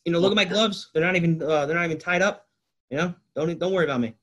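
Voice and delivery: half-hearted imitation of a player's call; mock player calling out. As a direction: lightly act out a player talking to opponents. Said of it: "yells to the Cowboys defense".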